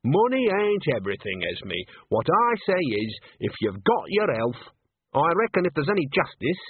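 self-assured granny voice; Granny's dialogue. Acted. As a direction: lay it out pointedly, phrase by phrase.

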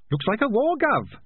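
high squeaky rat voice; rat character voice. Acted. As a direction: voice a scrappy little rat. Rat character Sardine speaks.

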